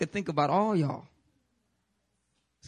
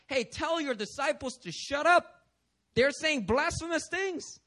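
indignant complaint; 5 semitones higher than usual. Acted. Acting indignant religious leaders.

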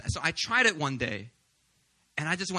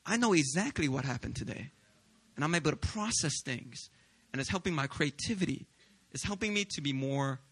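calm reflective. Real, not acted.

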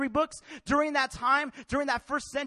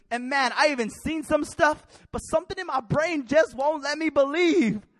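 louder, pressing plea; earnest plea; 2 semitones higher, 5 dB louder than usual. Acted. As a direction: push the plea out urgently. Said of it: "He's like".

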